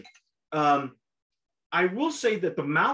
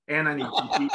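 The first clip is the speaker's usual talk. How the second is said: laughing; 4 semitones lower than usual. Real, not acted. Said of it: "Oh God, I need a dictionary".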